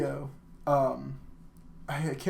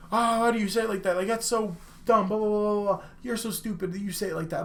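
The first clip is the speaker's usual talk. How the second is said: higher-pitched mocking rant; mock scorn; 6 semitones higher, faster than usual. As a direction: imitate someone sneering at a pronunciation. Acts out people mocking pronunciation.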